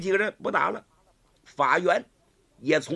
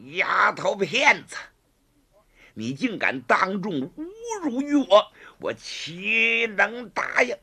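higher, slow menacing reply; slow furious threat; 4 semitones higher than usual. Acted. Gao Feng threatening the girl who shamed him, slow and angry. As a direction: grind out the threat.

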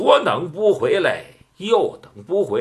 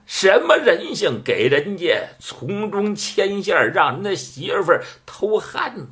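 lightly voiced old matchmaker protesting, pitched up in places; mock indignation; 3 semitones higher than usual. Old matchmaker haggling with her client over a bribe, mildly indignant. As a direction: put on a show of wounded reputation.

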